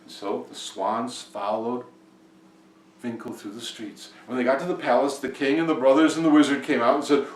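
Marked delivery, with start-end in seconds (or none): none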